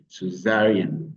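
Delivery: slow "Césarienne", accented on ZA; stress on ZA. Shown as a demonstration. Teacher showing learners where the accent goes, "Césarienne" stressed on ZA. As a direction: stretch and stress the second syllable of "Césarienne". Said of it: "Vous mettez l'accent sur".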